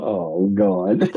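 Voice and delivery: high, groaning mock dismay; playful high-pitched groan. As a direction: squeak it like a nervous lad. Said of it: "And he was like".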